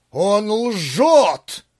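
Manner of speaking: frantic scream. A narrator's reading. Pavel bursting from the wardrobe, frantic scream. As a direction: scream it out desperately. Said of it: "истошно закричал".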